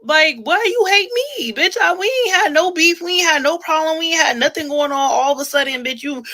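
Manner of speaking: very high, loud mock wail; shrieked complaint, high and loud all through; hammed-up outrage. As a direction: wail the grievance at full volume. Ranting at rival, hammed-up complaint.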